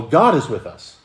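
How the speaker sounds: "God" leaned on, "with us" falling after; stress on God. Shown as a demonstration. Preacher giving the first of three readings, stress on "God". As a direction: put the weight on the first word, "God". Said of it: "look at it in three different ways".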